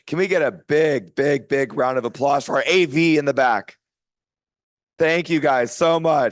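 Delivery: loud, rallying applause call; calling out to crowd. Real, not acted. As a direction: hype the room up for applause.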